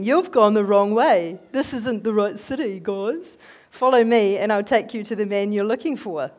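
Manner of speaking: a preacher voicing Elisha calling out loud. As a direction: call them over, big and bold. Elisha calls to the army.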